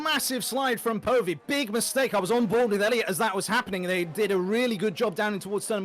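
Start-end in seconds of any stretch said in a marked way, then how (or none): 0.0-3.3 excited. Real, not acted. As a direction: ring out the mistake. Calling a driver's slide live.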